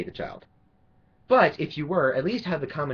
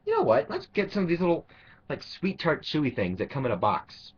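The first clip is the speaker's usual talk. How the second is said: mock candy-eater; 3 semitones higher than usual. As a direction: lightly parody the neighbour's bright idea.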